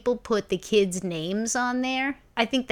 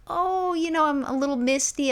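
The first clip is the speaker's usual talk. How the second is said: high, wistful mock tearfulness; mock misty; 7 semitones higher than usual. Recalling getting misty over the fake news, mock sad. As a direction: act a bit choked up, tongue in cheek. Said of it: "all of a sudden, I'm like".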